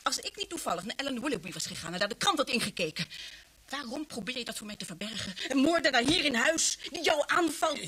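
indignant reproach building; furious mother confronting daughter; angry scolding. Acted.

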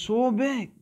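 put-on child marveling at the whale again; excited. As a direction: let the size sink in with awe. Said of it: "He's excited now".

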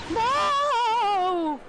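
ghost voice. Acted. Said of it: "Sound like a ghost".

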